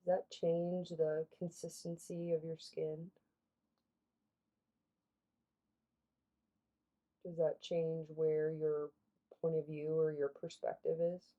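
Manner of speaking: calm questions, long pauses between; guided meditation. Real, not acted. Guide asks listeners to reflect on their body, guided meditation. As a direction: leave space after each reflective prompt.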